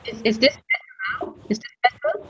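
distant, muffled phone line; faint and broken up on the call; phone held away. Real, not acted. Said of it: "Not yet".

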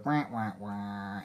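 slow, soft, low wah wah wah; sad trombone. Pretend. Sad trombone after bad rare.

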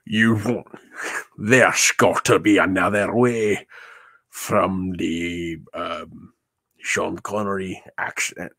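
light Sean Connery Scottish accent impression; a mild hint of Sean Connery's Scottish accent. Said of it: "Is my Sean Connery voice".

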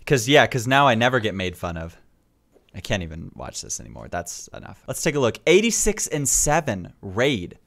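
normal talking voice

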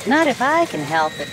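quick, high and firm; determined. Acted. Caboose to the sliding train, quick and determined. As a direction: dig in and refuse to slip. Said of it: "said the little red caboose".

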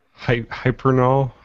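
Hypernol said with hyper; Hypernol, wrong start; mispronounced. Shown as a demonstration. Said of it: "That wasn't even close".

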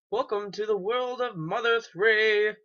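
hammed-up title announcement; game announcer. Announces the game's opening title.

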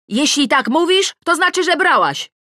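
high, loud accusing yell; shout. A narrator's reading. Accusing Tosia of taking the perfume, shouting. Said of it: "krzyczę".

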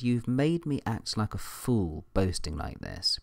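lightly sarcastic reading of a letter. Retold or imitated. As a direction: read it out with a touch of sarcasm. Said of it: "rather sarcastically".

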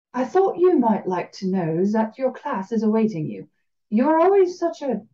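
slow drawl, French and Southern American; lightly drawled Louisiana Cajun lilt; Cajun accent. Acted. Blind teacher telling the professor his class waits, in a Cajun drawl. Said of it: "slow drawl that was somehow both French and Southern".

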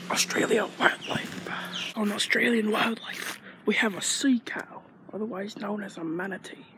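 hammed-up Australian nature host, partly whispered; mock Australian accent. Vlogger spotting a manatee for viewers, mock Australian accent. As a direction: play a bad Australian wildlife presenter. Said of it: "I have such a good Australian accent".

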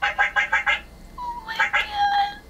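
very high, slow drawn-out squeal. Real, not acted. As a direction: stretch it out in a delighted squeal. Squealing at the robot's duck sound.

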